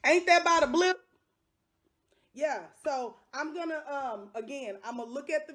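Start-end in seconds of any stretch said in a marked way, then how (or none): 0.1-1.0 indignant exclaim. Real, not acted.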